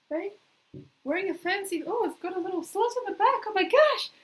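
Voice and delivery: thrilled, showing off the dress; excited. Real, not acted. Showing off her new dress.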